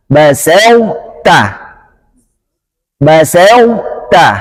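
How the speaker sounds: basauta slow, emphatic ta kept as it merges; correct basauta. Shown as a demonstration. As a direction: draw out basauta with a heavy ta. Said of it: "Maka kita baca".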